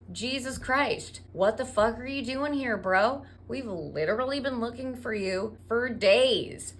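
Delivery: exasperated mom telling off her son; hammed-up parental reproach; mock scolding. Mother scolds missing son.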